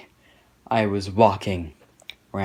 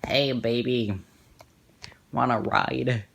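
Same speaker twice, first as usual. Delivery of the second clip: a hint of an awkward creep leaning in; the unsexy version of the same line; awkward creepy flirt; 2 semitones higher than usual. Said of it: "that's what he sounded like".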